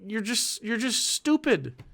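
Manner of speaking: mock campaign bluntness, high and drawn out; mock blunt stump speech; blunt candidate talk. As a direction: scold voters like a fed-up politician. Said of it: "I'm gonna be saying".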